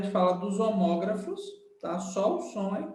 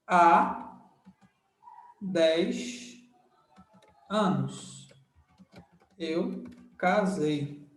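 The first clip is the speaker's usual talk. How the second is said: slow demo; 2 semitones lower, much slower than usual. Shown as a demonstration. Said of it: "quando você fala assim".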